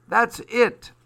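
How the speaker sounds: high and loud with glee; thrilled and loud; excited cry. Acted. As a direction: shout it in delight. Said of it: "he cried".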